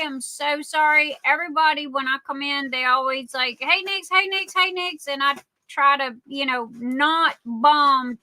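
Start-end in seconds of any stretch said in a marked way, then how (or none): 3.6-5.1 quick repeated higher-pitched greeting; lightly imitated greeters. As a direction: mimic people eagerly calling out to you. Imitating viewers greeting her.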